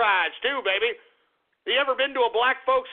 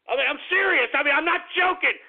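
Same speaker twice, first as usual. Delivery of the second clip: insistent protest; 5 semitones higher, faster than usual. Real, not acted. Protesting that he is serious.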